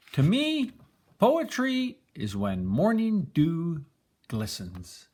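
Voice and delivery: high, light little spider voice; a tiny creature sharing a secret; Spider's voice. Acted. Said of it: "hears Spider say".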